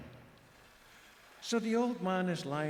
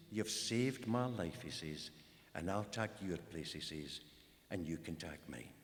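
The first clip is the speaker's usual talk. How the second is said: put-on weak old king; 9 semitones lower, 6 dB quieter than usual. Dying old king thanks hero.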